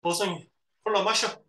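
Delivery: demonstrating a curt, unaffectionate offer; brusque. Shown as a demonstration. Teacher showing what brusque speech is, brusque. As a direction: say it gruffly, with no affection. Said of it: "이런 게 퉁명스러운 거야".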